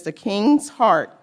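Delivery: scripture reading. Real, not acted. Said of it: "And it says".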